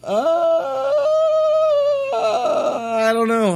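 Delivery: high, slow bleating warble; goat voice. Acted. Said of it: "That was my goat impression".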